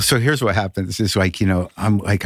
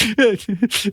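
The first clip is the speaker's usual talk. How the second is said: imitated sobbing; 11 semitones higher than usual. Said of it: "I'm just sort of, like, holding on".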